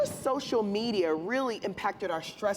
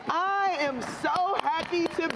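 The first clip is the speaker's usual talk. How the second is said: higher, bright eager lift; excited; 6 semitones higher than usual. Shown as a demonstration. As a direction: sound thrilled to be here. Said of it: "she's excited".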